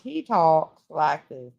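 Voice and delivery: slow, drawn-out Southern imitation; Southern drawl. Showing how T-Rex talks, slow Southern drawl. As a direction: stretch it like a Southern trucker. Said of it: "he sounds like he's Southern".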